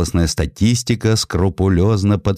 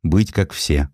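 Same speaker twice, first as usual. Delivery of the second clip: a hint of a slow, reproaching mother; reproachful mother; 4 semitones higher, slower than usual. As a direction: gently scold the son, drawn out. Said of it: "упрекала она сына".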